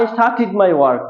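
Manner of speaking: slow model sentence, "started" ending in "-tit"; corrected pronunciation. Shown as a demonstration. Teacher gives the class an example sentence, corrected pronunciation. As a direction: say "started" with a short i in the last syllable. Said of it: "একইভাবে স্টার্ট এর past tense".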